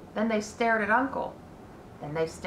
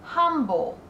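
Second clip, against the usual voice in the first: farmer reading; 6 semitones higher, 4 dB louder than usual. A narrator's reading. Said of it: "said Mister Zuckerman".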